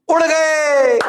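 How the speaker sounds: high, loud "उड़ गए" burst; dramatic shout. Acted. Physics teacher dramatizes to class, high shout.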